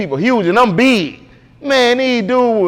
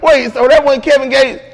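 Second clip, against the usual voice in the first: laughing disbelief; 6 semitones higher than usual. Retold or imitated. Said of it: "He was like".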